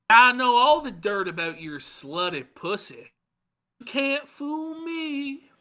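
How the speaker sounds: high, slow sneering mock voice; mocking Ralph. Host mocking Ralph's threatening messages, high sneering voice. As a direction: ham up a belligerent online tough guy. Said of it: "but he goes".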